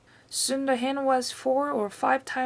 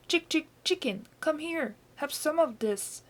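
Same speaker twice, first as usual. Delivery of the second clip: higher, sing-song coaxing of a hen; coaxing chicken call; 6 semitones higher than usual. A narrator's reading. Boy coaxing the greedy hen to the spoon, sing-song. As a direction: lure the chicken in sweetly.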